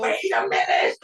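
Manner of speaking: high, urgent call; shouting. Retold or imitated. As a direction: call out to halt the reading. Shouting to stop misread count.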